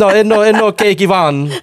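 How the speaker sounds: high, loud playful objection; loud, high-pitched correction; laughing protest. Real, not acted. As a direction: protest over the teasing, pitched right up. Protesting the teasing accent, correcting.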